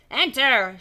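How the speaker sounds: snapped French order; French accent. Acted. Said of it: "She's French as well".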